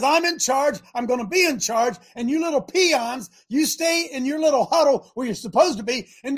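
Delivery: a hint of a swaggering bully, slowing at the end; boasting giant. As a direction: lay down the challenge like a smug champion. Goliath boasting, challenging the church.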